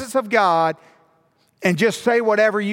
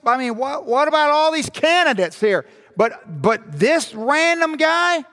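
higher, baffled protest with stumbling restarts; mock disbelief, pitched up; acted incredulous objection; 7 semitones higher than usual. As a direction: object as if you can't believe who got picked.

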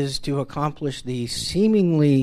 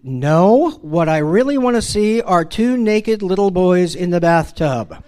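raised, higher voice of a dad losing it; retold exasperated shout; 5 semitones higher, 4 dB louder than usual. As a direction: holler it like a fed-up father. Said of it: "in my best Father of the Year voice, I, uh, I shouted".

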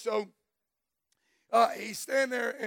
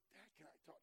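much softer, lower little voice; son asking softly; 5 semitones lower, 32 dB quieter, much faster than usual. Retold or imitated. Father imitates his son asking to talk, much softer. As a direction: ask timidly like a boy at bedtime. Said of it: "and he goes".

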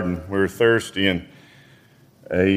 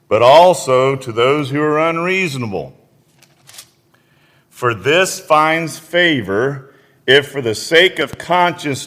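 scripture reading, rising to preaching; 3 semitones higher than usual. Acted. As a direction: preach the verses to the congregation. Reads scripture aloud.

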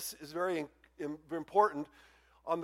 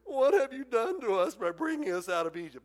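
higher-pitched mock complaint; complaining inflection; 4 semitones higher than usual. Israelites protesting to Moses in fear, complaining. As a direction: read it as an aggrieved protest to a leader. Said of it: "add a little of my personal inflection here".

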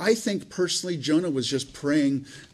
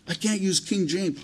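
higher-pitched imitation of a reluctant person; mock excuse; 5 semitones higher than usual. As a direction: lightly act out someone making excuses. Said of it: "sometimes we get this attitude".

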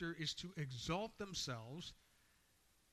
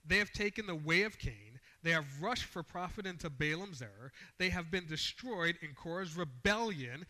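forceful scripture reading, slightly raised; loud, emphatic reading; 4 dB louder than usual. Shown as a demonstration. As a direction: declare it with the writer's emphasis. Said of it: "if I get a little bit loud".

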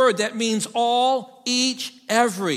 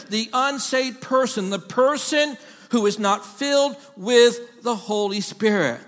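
fervent preaching. Acted. Preacher to congregation on the Holy Spirit, fervent preaching. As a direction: press each phrase home to the pews. Preaching builds to full force.

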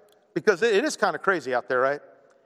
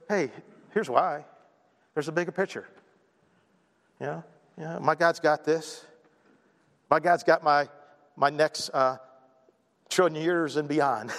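calm assurance. Acted. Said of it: "and you're not freaking out".

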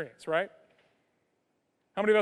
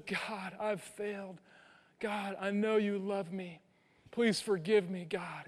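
much softer, meek, broken prayer; barely above a breath, humbled; softly confessing to God; contrite prayer; 2 semitones lower, 9 dB quieter than usual. Retold or imitated. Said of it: "That contrite, meek heart that says".

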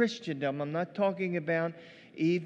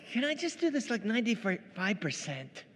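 haggling spouse; 3 semitones higher, 3 dB quieter than usual. Pretend. Imagined spouse bargaining at altar.

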